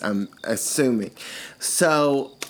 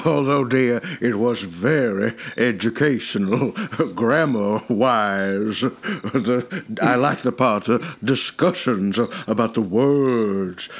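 put-on old lady voice; 2 semitones lower than usual. Character voice in roleplay.

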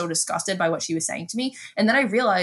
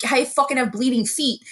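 mock pleading, pitched up; retold exasperated complaint; 6 semitones higher than usual. Kid griping about rocky beaches, mock exasperated. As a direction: re-enact a fed-up kid's complaint.

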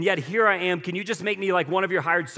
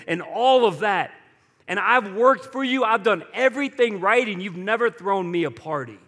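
a mildly bitter brother, higher and louder on the complaints; angry older brother; 5 semitones higher, 4 dB louder than usual. Acted. Older brother confronting his father, bitter and angry. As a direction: push the hurt resentment up toward his dad. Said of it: "The older brother became angry".

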